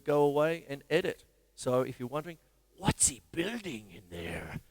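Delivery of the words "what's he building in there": a singer's voice. Retold or imitated. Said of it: "a singer".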